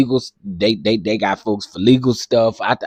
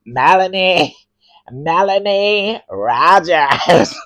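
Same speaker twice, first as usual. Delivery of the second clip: imitating the host; 4 semitones higher than usual. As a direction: savor each name like a pageant announcer. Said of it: "He be like".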